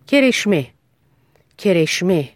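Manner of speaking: کرشمه said carefully with a clean sh; clear, unexaggerated sh in کرشمه; correct shin pronunciation. Shown as a demonstration. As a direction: model کرشمه twice with a pause between. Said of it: "مثال برای تلفظ صحیح حرف شین".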